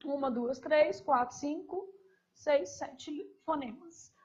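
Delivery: contagem pausada e mais baixa; contando os fonemas. Shown as a demonstration. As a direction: conte os sons de "Processo" um a um, devagar. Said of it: "Vou contar aqui pra vocês". (professora conta os fonemas em voz baixa)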